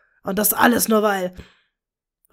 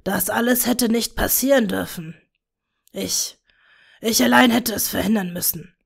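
wistful whisper. A narrator's reading. Tom to Bella, mourning their lost daughter, wistful whisper. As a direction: murmur it like a grieving father. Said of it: "flüsterte wehmütig".

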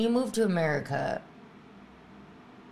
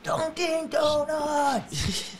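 very slow, high calling out; mock triumphant shout; 11 semitones higher, much slower than usual. Comic capping the fan bit, high drawn-out cry. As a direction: stretch the brand name into a big punchline.

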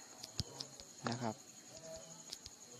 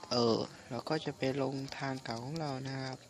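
hoarse, voice half gone from a cold; weak hoarse voice. Real, not acted. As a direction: speak with a sick, hoarse throat. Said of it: "รู้สึกว่าเสียงนี่ไม่ค่อยมีเลยนะ".

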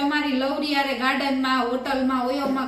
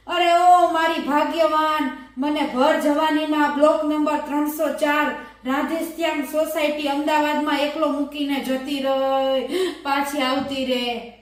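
mock weeping; 3 dB louder than usual. Widower crying his address for the listening woman, mock lament. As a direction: cry out the address so she hears. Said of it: "રોતા રોતા એમ કીધું".

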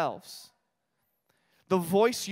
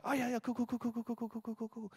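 distracted brush-off; 4 semitones higher, 9 dB quieter than usual. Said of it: "I was like".

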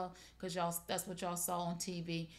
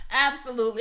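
loud, laughing agreement; amused; 5 semitones higher, 11 dB louder, faster than usual. Real, not acted. Host agreeing with viewer's joke, loudly amused. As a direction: burst out agreeing through a laugh.

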